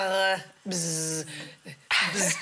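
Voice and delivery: low short bzzz buzz; bee buzz. Shown as a demonstration. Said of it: "J'ai fait comme ça".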